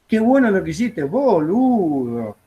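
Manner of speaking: friendly praise, "boludo" drawn out slowly; affectionate boludo. Shown as a demonstration. Teacher shows students a loving "boludo", drawn out. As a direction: stretch out "boludo" fondly, like a compliment. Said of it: "diciéndole que la quiero mucho".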